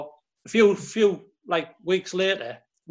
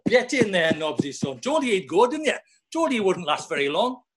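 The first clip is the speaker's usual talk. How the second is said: laughing; 3 semitones higher than usual. Retold or imitated. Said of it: "Smudge just laughing".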